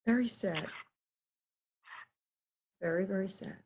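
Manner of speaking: holding back real tears; overcome with sadness. Real, not acted. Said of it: "I'm getting something, uh, emotional thing".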